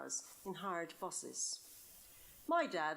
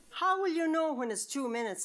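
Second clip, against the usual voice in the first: higher and louder, words spilling through a laugh; 7 semitones higher, 7 dB louder than usual. Acted. Friend laughing at the two-minute kissing rule. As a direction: giggle the question out. Nan laughing at Alma's plan.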